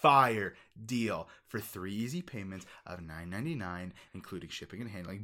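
infomercial. Pretend. Pitchman offer.

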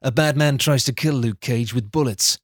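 measured, deadpan storyteller read; deliberate storybook delivery; story narration. A narrator's reading. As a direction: narrate a silly recap like a serious tale. Reads script narration.

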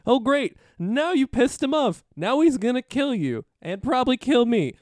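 high, whiny orc underling voice; orc grunt. Acted. Grunt to player before his captain, hammed-up dread. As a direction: panic and scold like a doomed minion. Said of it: "a grunt will jump out".

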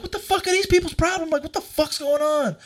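high-pitched retold protest; retold exasperation. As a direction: re-enact bewildered outrage up high. Retells his outraged reaction to them.

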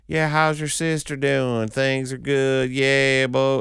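high, drawn-out Southern chit-chat; slow Southern drawl. Acted. Gas station clerk chatting at leisure, slow Southern drawl. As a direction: stretch every word like an unhurried Southerner. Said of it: "the guy who's like".

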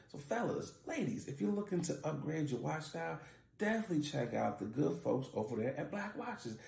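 easygoing host-read sponsor pitch; podcast ad read. Acted. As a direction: sell it casually to the listeners. Reads a sponsor ad.

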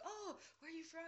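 high, bright mock question; mimicking people who ask where she's from, in a high chirpy voice; mock chirpy asker. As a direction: imitate a perky stranger. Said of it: "they're like".

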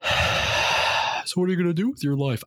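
high mock voice of a prying aunt; mimicking a nosy relative. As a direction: ask it like a nosy aunt at a family gathering. Relatives' clichéd question mimicked.

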